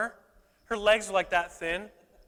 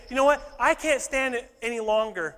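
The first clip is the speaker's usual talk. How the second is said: fired-up resolve; 3 semitones higher, 5 dB louder than usual. Retold or imitated. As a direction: voice him as a man who's had enough. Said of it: "he wouldn't talk like that".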